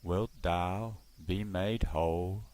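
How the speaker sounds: Jesus speaking with love. Acted. The stranger asks the crippled man, a hint of gentle authority. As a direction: let love itself reach out through the question. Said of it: "as though love itself is reaching out".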